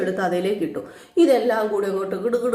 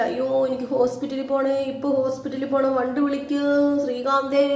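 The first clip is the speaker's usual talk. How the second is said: lightly acted wail, higher; mock wailing; 4 semitones higher than usual. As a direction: imitate a fussy cry for help. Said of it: "ഭയങ്കര കാർച്ച". (കുറച്ച് ഉയർന്ന സ്വരത്തിൽ കളിയായി നിലവിളിക്കുന്നു)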